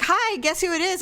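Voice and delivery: a playful teasing "guess who"; imitating Larry. Larry calling late, voiced.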